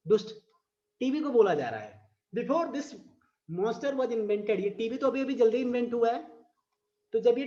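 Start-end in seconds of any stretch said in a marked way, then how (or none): 2.4-4.6 slow, sing-song poem reading; drawn-out recital voice; poem recitation. Shown as a demonstration. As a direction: read it out like a verse for class. Quoting the poem line.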